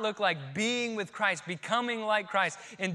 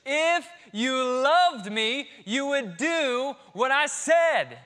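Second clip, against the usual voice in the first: mock inner voice; 7 semitones higher, 10 dB louder, much slower than usual. Voicing the gut's accusing words.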